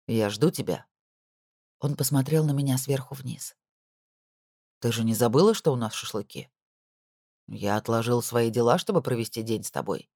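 low, controlled husband voice; cold husband. A narrator's reading. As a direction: lay it down coldly from above. (холодный голос мужа)

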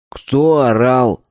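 slow, stern demand from the counselor; stern counselor question. A narrator's reading. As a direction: ask slowly, like a strict camp counselor. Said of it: "спросил Валерик".

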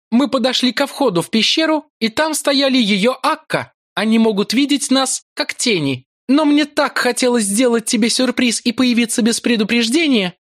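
high, silky, coaxing priestess; soft and insinuating. A narrator's reading. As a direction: coax him gently with hidden menace. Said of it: "Голос звучал мягко и вкрадчиво". (мягко и вкрадчиво)

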